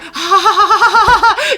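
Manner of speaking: high, loud imitated guffaw; big put-on belly laugh, ha by ha; laughing dad. Dad reacts to daughter swearing, laughing hard. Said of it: "He was, like, laughing".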